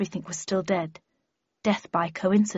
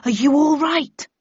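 higher, louder worried question; concerned question; 7 semitones higher, 5 dB louder than usual. A narrator's reading. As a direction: check anxiously on a friend. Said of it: "asked Wilbur".

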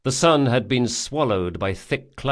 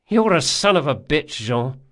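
angry insult; 5 semitones higher, 4 dB louder than usual. Acted. Locke insults Jean.

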